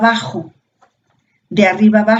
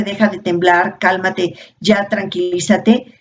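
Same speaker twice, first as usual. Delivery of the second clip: wrong way. Shown as a demonstration. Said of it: "En lugar de".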